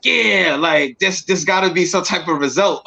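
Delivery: retold thrill with a laugh at its end; excited retelling. Marveling to himself at his imagined powers, excited. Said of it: "I'm excited".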